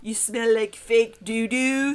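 put-on slow, heavy Russian accent. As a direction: drawl it like a Russian tough. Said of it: "in accented English".

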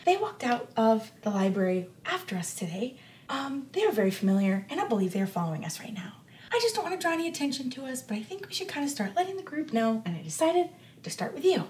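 hushed, discreet warning, partly whispered; whispering. Acted. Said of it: "Winnie's whispering this".

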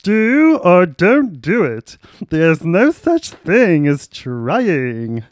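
a light, slow hint of Yoda; mock-wise little Jedi master, drawn out; Yoda impression. Carrying Ramon, a slow lightly voiced Yoda. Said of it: "That's my Yoda impression".

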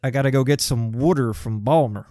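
lightly voiced Baltimore local, "wooder"; mock Baltimore accent. Mocking locals, light Baltimore accent. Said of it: "mocking Baltimore locals".

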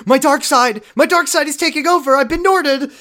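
high, loud dramatic wail; overacted dark-side cry; dramatic villain cry. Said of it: "Jesse's like".

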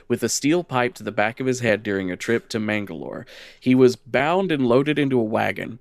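measured lore reading; lightly dramatic storyteller voice; story narration. Acted. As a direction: read it like a dark legend. Reads the lore text aloud.

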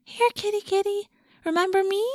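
very high kitty-calling coo; high talking-to-animals voice. A narrator's reading. Rachel calling the cat, high talking-to-animals voice. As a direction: coax the cat, high and gentle. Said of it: "in a high talking to animals voice".

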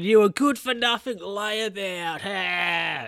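mocking phone voice. Jack taunting a caller on the phone, mocking high jeer. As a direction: jeer down the phone like a cheeky salesman.

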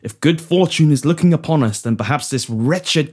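hopeful Prime Minister. Acted.

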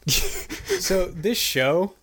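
very slow, dragged words; drawn-out lead-in. Real, not acted. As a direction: stretch it out slowly. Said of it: "super kinda bad".

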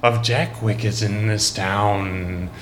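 slow, lightly sinister cult leader orders; a touch of the sinister leader. Acted. Cult leader sending followers out, lightly sinister. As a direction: give the orders in a hint of the villain voice. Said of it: "in a strange and sinister voice".

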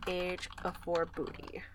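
slow, low murmur while writing; soft, halting self-dictation; absent-minded dictation. Real, not acted. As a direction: mutter it slowly as you note it down.

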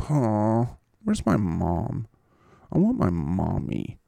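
mock whimpering for mom; slow, small, babyish pout; Zach Wilson. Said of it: "you petulant little fart head".

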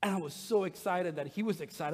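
normal talking voice

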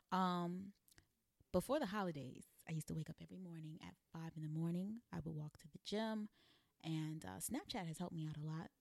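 usual speaking voice

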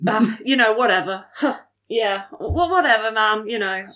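mildly frustrated brush-off; slightly huffed. Acted. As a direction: huff it off without real anger. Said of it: "Sort of huffed slightly".

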